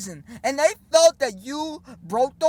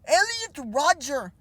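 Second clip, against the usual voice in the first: mocking Jordan Peterson; 3 semitones higher, slower than usual. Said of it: "the same thing goes".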